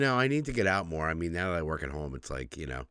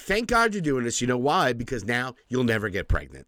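gleeful teasing; 3 semitones higher than usual. Retold or imitated. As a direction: gloat at her with glee. Retold taunt to daughter.

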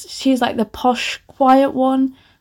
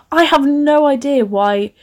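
mildly exasperated bafflement; getting annoyed. Real, not acted. Author picking apart her own plot, mildly annoyed. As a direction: puzzle over it with rising irritation. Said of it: "Why am I getting annoyed?".

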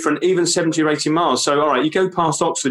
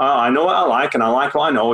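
lower-pitched imitation Leeds accent; Yorkshire accent; 3 semitones lower than usual. Shown as a demonstration. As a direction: say it like a blunt Yorkshire local. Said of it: "across the Pennines to Leeds".

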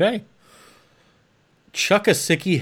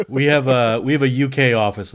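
ordinary delivery

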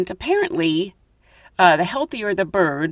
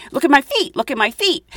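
booby call; 6 semitones higher than usual. Retold or imitated. Asking men to do the call.

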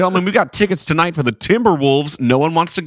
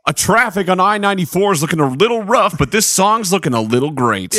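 smooth radio host. Acted. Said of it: "radio D J voice".

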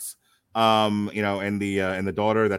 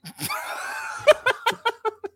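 shrieking burst of laughter; a high whooping laugh. Real, not acted. Laughing at co-host's joke.

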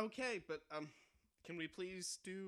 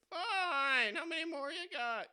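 loud, high robber yell; frantic shouting hostage taker; 14 semitones higher, 10 dB louder than usual. Acted. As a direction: bark it like a stick-up man. Robber impatient.

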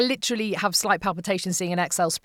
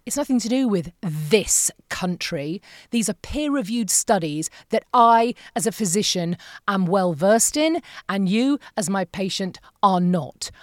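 stern doctor. Retold or imitated. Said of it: "he said".

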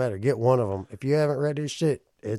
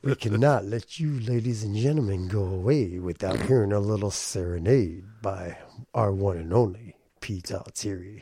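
late night sultry voice; 3 semitones lower than usual. Pretend. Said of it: "in my late night sultry voice".

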